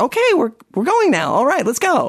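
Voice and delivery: breezy, happy, very high sing-song cheery tone. Retelling how a companion calmly got everyone to leave, imitating a happy tone. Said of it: "put like kind of a happy tone in her voice".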